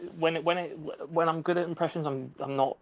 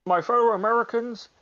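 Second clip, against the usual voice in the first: Obama impression; 5 semitones higher than usual. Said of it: "as Black Obama".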